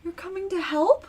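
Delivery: high, surprised worried woman; anxious tired mother. Acted. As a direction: sound startled and hopeful. GM voices Ronnie, surprised.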